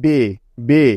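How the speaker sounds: "বে" repeated as b plus short e; BE sound demo. Shown as a demonstration. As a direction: sound out each "বে" separately. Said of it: "তাহলে বিই হয়ে গেল".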